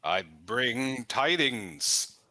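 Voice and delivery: slow, formal messenger delivery; a hint of a stately envoy; lightly voiced herald. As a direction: announce tidings with measured ceremony.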